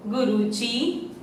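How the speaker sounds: गुरुजी read slowly, each syllable stretched for the class; slow teaching read of गुरुजी. Shown as a demonstration. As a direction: spell out गुरुजी slowly so the children can follow. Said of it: "फिर से एक बार पढ़ते हैं".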